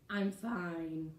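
a clipped-sounding annoyed fine; curt with too much tone. Shown as a demonstration. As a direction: let the resentment show. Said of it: "there's way too much tone in there".

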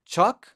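chocolate broken into chok, pause, leit; correct pronunciation. Shown as a demonstration. Teacher drilling the halves, two-beat chocolate. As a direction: lift chok high, then place leit. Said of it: "Que no es así, es chocolate".

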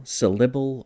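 "syllable" said as suh-LIH-bul, stress on the second syllable; accent the middle of "syllable" with a short ih; "syllable" with a full, stressed ih in the middle; middle vowel IH. Shown as a demonstration. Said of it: "what vowel am I using".

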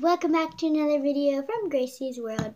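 loud, high, bright intro call; loud greeting. Real, not acted. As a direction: greet the viewers big and loud.

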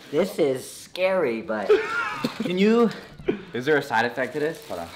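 high squeaky helium laugh. Real, not acted. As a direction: chipmunk voice from helium. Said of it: "That voice".

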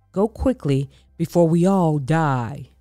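urgent plea. Acted. Frightened Pharaoh urges them.

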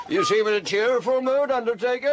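mock him with a shrill laugh; high cackle. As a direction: landlord teasing the undertaker, cackling. Landlord cackles at undertaker.

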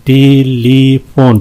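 "टेलीफोन" slowly, in three even beats; syllable breakdown. Shown as a demonstration. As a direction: give each syllable of "टेलीफोन" its beat. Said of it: "तीन है इसमें". ("टेलीफोन" तीन बराबर हिस्सों में)

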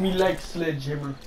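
mock Russian accent. Gamer playing the Russian to teammate, Russian accent. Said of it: "I need to be the Russian".

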